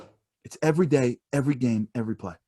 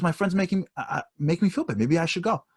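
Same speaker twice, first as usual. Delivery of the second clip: wife's voice; 5 semitones higher than usual. Retold or imitated. Wife voiced calling Charlie.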